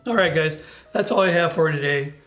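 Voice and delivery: wavering, rough voice while getting over illness; unsteady, grainy voice; unstable grainy voice. Real, not acted. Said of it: "I know my voice is all over the place".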